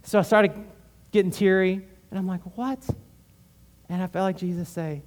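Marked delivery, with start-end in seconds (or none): 2.6-2.9 high, startled what; a sudden high gasp of disbelief; stunned what. Retold or imitated. Man stunned by God's answer, high startled what.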